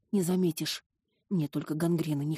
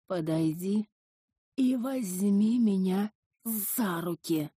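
drawn-out, coaxing demon voice; slow luring creature; slower than usual. Acted. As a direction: lure her in slowly. Entity lures heroine closer.

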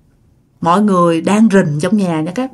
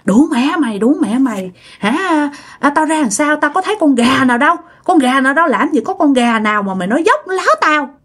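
higher-pitched spirit voice scolding; possessed cursing; 4 semitones higher than usual. Retold or imitated. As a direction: lash out as the possessed grandma. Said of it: "Quay qua chửi đó". (giọng bà bị nhập chửi mắng, cao hơn)

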